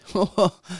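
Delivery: short acted scornful laugh; brief derisive ha-ha; mocking laugh. A narrator's reading. Furious little man laughs mockingly.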